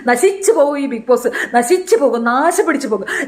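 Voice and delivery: mock curses with punched words; hammed-up chant of curses; imitated cursing. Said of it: "അവൾ അങ്ങനെയാണ് ഇപ്പൊ പ്രാവുന്നത്".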